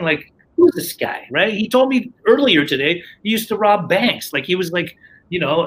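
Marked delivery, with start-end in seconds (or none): 0.6-1.3 incredulous thought. Retold or imitated.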